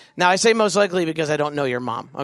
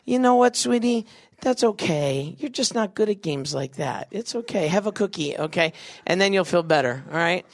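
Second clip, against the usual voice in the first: comforting mom; 2 semitones higher than usual. Pretend. Mom consoling a child who lost a game, sweetly soothing. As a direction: console gently, easing off in volume. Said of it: "she's gonna be like".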